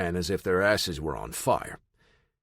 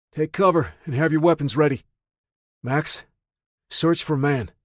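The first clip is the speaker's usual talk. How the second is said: commanding shout; 6 semitones higher, 5 dB louder than usual. Acted. Narrator orders group and dog.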